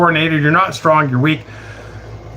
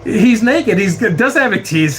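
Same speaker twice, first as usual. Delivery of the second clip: ordinary talk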